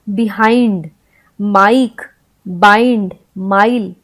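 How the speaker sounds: "बिहाइंड, माइक, बाइंड, माइल" with an eye vowel. Shown as a demonstration. Teacher listing long-i examples, demonstrated clearly. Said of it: "आई के रूप में".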